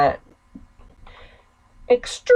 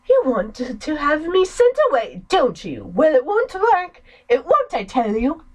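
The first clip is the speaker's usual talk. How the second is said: agitated defiance; 4 semitones higher than usual. Acted. Sister accusing brother of sending her away, agitated. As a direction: push back hard.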